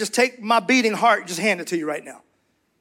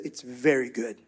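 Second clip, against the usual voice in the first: God speaking; 8 semitones lower, 7 dB quieter, slower than usual. Retold or imitated. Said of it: "then he said".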